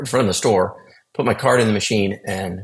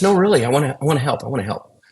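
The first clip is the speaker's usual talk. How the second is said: retold insistence, higher then settling; insistent; 5 semitones higher, faster than usual. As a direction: lightly imitate someone insisting, pitch lifted at first. Retells mother-in-law insisting on helping.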